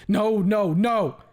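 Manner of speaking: loud, high frantic nos; terrified scream; panicked screaming. A narrator's reading. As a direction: scream to break free. Trying to wrestle free.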